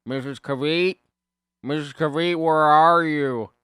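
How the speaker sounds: loud, high, drawn-out calling; searching call. Retold or imitated. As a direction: call out for her across a parking lot. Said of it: "he's looking for her".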